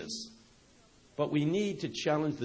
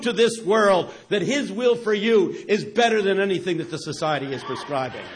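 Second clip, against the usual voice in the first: fervent scripture quote; 3 semitones higher, 5 dB louder than usual. Retold or imitated. Quoting Phillips translation, rising fervor.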